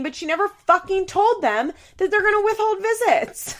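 high, loud, indignant climax; exasperated outburst. Real, not acted. Vlogger rants that Chelsea never told them, exasperated. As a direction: raise pitch and volume in real outrage. Rant peaks in disbelief.

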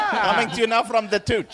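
hammed-up radio announcer, laughing. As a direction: chuckle through a DJ intro. Mock radio announcer line.

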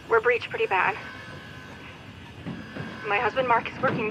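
urgent emergency radio call; mayday radio call. Acted. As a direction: keep it urgent but controlled. Distress call from wrecked ship.

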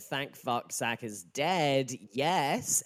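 loud, gleeful cheer, drawn out slowly; exultant note-reading. Retold or imitated. Reading own notes aloud to co-host, exultant. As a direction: crow it in triumph. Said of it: "On my notes here, I put".

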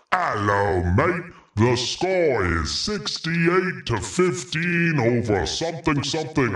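mock British commentator. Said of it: "he goes".

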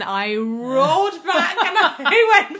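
high, loud talk through laughter; laughing. Real, not acted. Parent recalling the boy's surprise answer, laughing hard. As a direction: roar with laughter as you tell it.

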